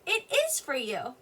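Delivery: slow answer with "is" standing out; emphasis on "is". Shown as a demonstration. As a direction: show the answer by stressing "is". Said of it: "I put a little bit of emphasis on my word there".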